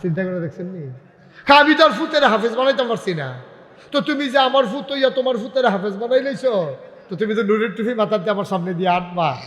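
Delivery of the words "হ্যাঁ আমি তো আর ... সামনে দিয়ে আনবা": high, hurried lament; grandfather's sorrowful complaint. Acted. Grandfather envying his son's reward, high aggrieved lament. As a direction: pour out the grievance in a raised voice. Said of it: "Shahjahan যখন এই দুঃখটা করছে".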